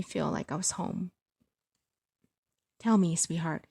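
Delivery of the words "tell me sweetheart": gentle father. Acted. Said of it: "he said gently".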